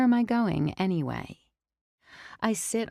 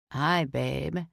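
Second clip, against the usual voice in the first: put-on drunk; 3 semitones lower than usual. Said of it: "He sounds like he's underwater".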